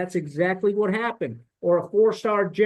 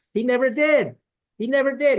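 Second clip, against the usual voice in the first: emphatic repeat; 6 semitones higher, 4 dB louder than usual. Real, not acted. Angry repeat about the commandant.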